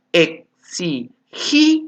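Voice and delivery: "exigía" broken into e, xi, gí, a with pauses; syllable by syllable. Shown as a demonstration. Teacher giving the last example, syllable by syllable. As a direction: step through "exigía", leaning on gí before a separate a. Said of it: "lo separo para que forme sílaba".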